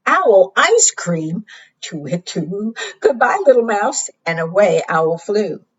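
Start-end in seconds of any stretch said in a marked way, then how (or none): 0.1-4.1 alarmed owl. Acted.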